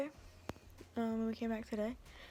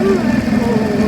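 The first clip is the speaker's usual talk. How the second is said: cold shock; 11 semitones higher, 19 dB louder, much slower than usual. Real, not acted. Outside in freezing golf cart.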